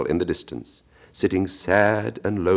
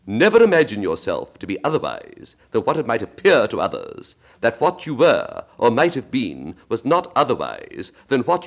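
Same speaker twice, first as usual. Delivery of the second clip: lightly voiced Duchess, a touch higher, winding on; Duchess moralizing; 4 semitones higher, 3 dB louder than usual. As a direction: pile clause on clause like a smug duchess.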